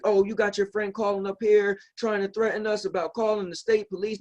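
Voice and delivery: a hint of an irate car salesman; retold flip-out. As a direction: act out the dealer snapping at him. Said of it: "the guy just flipped on me".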